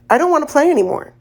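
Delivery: put-on fast, pleading little boy; a scared kid rushing his words. A narrator's reading.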